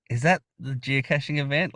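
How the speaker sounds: tentative, mildly timid question. Retold or imitated. Lady at car window asking about the event, timid. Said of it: "Like, really timid".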